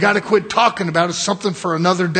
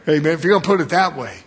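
amused laughing; 2 semitones lower, faster than usual. Real, not acted. Amused, repeats the prisoner's reply.

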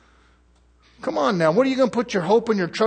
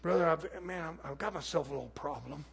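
meek pleading beggar; 2 semitones lower, 13 dB quieter than usual. Retold or imitated. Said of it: "Somebody comes and says".

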